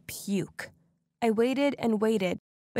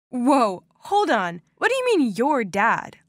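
gasping surprise; 4 dB louder than usual. Retold or imitated. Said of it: "Linda gasped".

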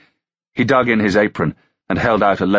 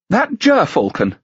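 much higher, slow gossip; gossiping lady; 14 semitones higher than usual. Acted. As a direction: drop it like dark gossip. Another gentlewoman voiced.

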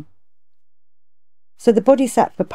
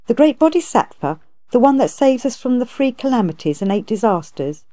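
amazed; 5 semitones higher than usual. Acted. Monster amazed at Kuan Yin's name.

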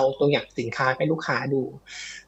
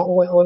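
a short imitated groan of pain; mock pained groan; 3 semitones higher than usual. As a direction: moan it like a man in agony, lightly. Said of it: "แบบโอดโอย". (เลียนเสียงร้องโอดโอยเบาๆ)

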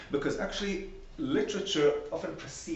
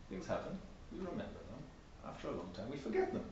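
each step softer until a whisper; softening to a whisper; fading to a whisper; 3 semitones lower, 11 dB quieter than usual. Shown as a demonstration. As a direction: let the voice die away. Simple steps, fading out.

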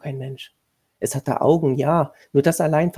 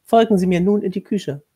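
higher, louder, formal commanding tone; stern lady of the house; 5 semitones higher, 7 dB louder than usual. A narrator's reading. Lady of the house instructing the new governess, stern and formal. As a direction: lay down the duties like a strict mistress.

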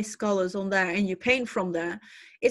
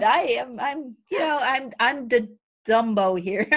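laughing; 4 dB louder than usual. Real, not acted. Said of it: "laughing self-mockery".

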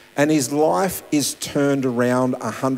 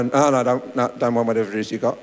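hurried brush-off; faster than usual. Retold or imitated. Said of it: "you gotta even get your name out".

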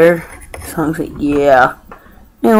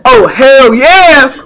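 slow drawn out hell yeah; excited cheer; 4 semitones higher, 3 dB louder, much slower than usual. Shown as a demonstration. Showing someone how to say the catchphrase, slow cheer. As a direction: drag out "Oh, hell yeah!" with a falling yeah. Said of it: "Go say".

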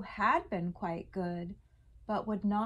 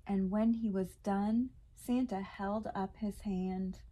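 measured, lilting rhymed storytelling; children's story narration. A narrator's reading. Reading a Hanukkah elf story to kids, lilting storytelling. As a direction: read the rhyming picture book to listening kids.

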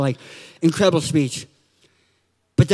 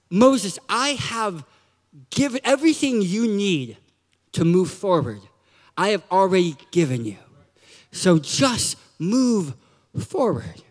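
calm firm instruction; 4 semitones lower than usual. Retold or imitated. God instructs Moses firmly, calmly.

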